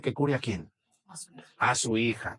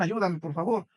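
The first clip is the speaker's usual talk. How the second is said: desperate plea; 3 semitones higher than usual. A narrator's reading. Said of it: "con mucha desesperación".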